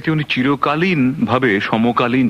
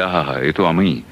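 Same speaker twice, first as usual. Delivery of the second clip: smug self-recognition; 6 semitones lower, slower than usual. Retold or imitated. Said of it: "ভাবে যে".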